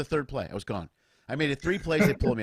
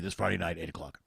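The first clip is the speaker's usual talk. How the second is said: mock promo sign-off; 8 semitones lower, 5 dB quieter than usual. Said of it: "old advertisers for a live show".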